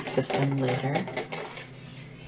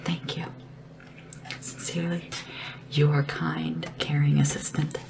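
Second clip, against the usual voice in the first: sincere card reading. Pretend. Reads own thank-you card aloud to ruler.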